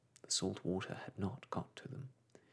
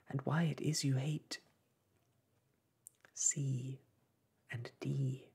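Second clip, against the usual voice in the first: whisper; 3 semitones higher than usual. Acted. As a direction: whisper it nervously. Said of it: "she added in a whisper".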